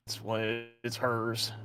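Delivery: soft, halting murmur; overheard whispering. Acted. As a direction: keep it hushed, as if half-heard through a door. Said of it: "and you hear whispering".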